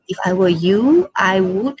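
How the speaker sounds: polite advice in a pleasant tone, lilting up at the end; very nice tone. Shown as a demonstration. Teacher shows students polite advice, very nice tone. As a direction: say it nicely, as gentle advice. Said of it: "say it in a very nice tone".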